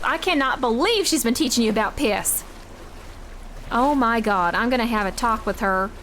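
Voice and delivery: lightly voiced parent scolding chat; mock scolding parent. Streamer scolds chat as a mock parent, lightly voiced. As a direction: play the fussy parent telling off the kids. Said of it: "As a parent".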